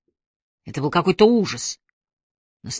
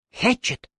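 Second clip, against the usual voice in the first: higher sharp call; 7 semitones higher than usual. A narrator's reading. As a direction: snap his name like a whip. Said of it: "Окрик Трой прозвучал, как удар хлыста". (резкий окрик)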